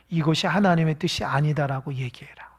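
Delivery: conspiratorial whisper; whispered bribe. Acted. Enemy whispering to the bribed priests, conspiratorial whisper. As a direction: whisper it like a secret deal.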